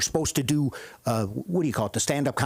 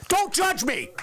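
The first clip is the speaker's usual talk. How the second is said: high yelp; 13 semitones higher, slower than usual. Acted. Blurting confession.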